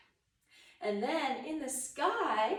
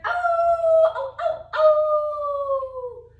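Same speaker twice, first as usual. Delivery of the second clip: mock surprise; 13 semitones higher, 13 dB louder, much slower than usual. Playful wobble in upward dog.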